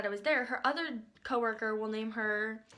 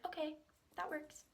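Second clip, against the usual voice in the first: small, soft, higher voice; timid; 4 semitones higher, 11 dB quieter than usual. Retold or imitated. Timid customer giving in to makeup artist, timid. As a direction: give in softly and meekly. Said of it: "I'm very timid".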